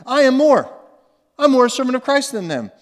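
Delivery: loud, high, emphatic boast; bragging. Acted. Preacher voicing Paul boasting to his rivals, bragging. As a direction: declare it boldly as a boast. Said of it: "act like he's bragging".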